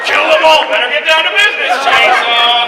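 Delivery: loud, forceful murderous commands; booming mock-villain orders; evil voice on the line. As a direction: urge on slaughter with hammed-up menace. Echo voice goes on commanding murder.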